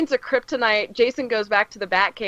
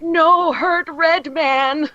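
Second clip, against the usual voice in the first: slow, higher broken-English brute; lightly voiced Bizarro pleading; a hint of a simple-minded hulk; 7 semitones higher, 3 dB louder, much slower than usual. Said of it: "he'd be like".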